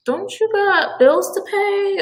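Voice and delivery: high, incredulous mock scolding; mock exasperated adult. Friend mocking adults who never grew up, in a high incredulous voice. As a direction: needle an immature grown-up with a squeaky put-on voice. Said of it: "where you're just like".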